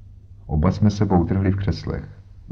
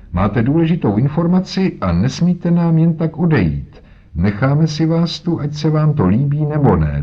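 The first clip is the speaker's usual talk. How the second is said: much higher, firmly voiced inspector; firm police inspector; 7 semitones higher, 3 dB louder than usual. Inspector Jones stopping the old man at the door, higher and firm. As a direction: block his way and tell him he stays.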